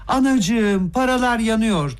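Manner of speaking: high, drawn-out lament; moaning. A narrator's reading. Lebedev laments the burning money, moaning. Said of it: "diye inledi".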